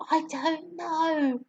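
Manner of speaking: soft, slow hushed reply; whispered. A narrator's reading. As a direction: breathe it back quietly. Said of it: "Matilda whispered back".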